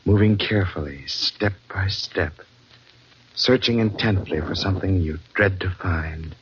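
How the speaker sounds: slow, hushed, ominous radio narration. Acted. Announcer setting a dread scene, slow and hushed. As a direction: draw the listener into the dark hold.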